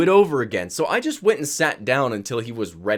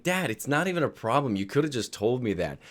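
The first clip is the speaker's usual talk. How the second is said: reassuring son; 5 dB quieter than usual. Retold or imitated. Son reassures apologizing dad.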